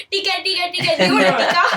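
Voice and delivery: "Tike, tike, tike" mocked in a flat British way; teasing mimic. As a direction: tease the British kid by copying her. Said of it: "she'd call me so British".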